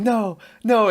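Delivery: high, loud hammed-up scream; mock scream. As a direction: shriek it like a horror victim. Acting Jack Black's death scream.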